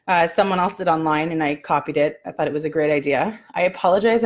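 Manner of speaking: slightly out of breath, pregnant; talking short of breath. Real, not acted. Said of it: "I'm really short of breath".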